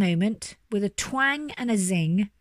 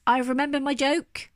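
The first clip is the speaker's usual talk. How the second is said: high, excited little squeak; sudden squeak; 7 semitones higher than usual. A narrator's reading. Little mouse suddenly remembers her joke, high squeak. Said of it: "squeaked Pickle suddenly".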